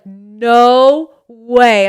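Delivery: loud stunned exclamation; surprised. Retold or imitated. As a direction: blurt it out in shock. Dakota realizes it's Josie.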